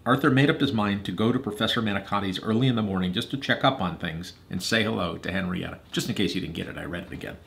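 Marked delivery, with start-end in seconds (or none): 0.1-5.8 measured, expressive storytelling; story narration. A narrator's reading. Reader telling Hadley and Eliza Arthur's story, narrating. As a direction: read a storybook aloud to children.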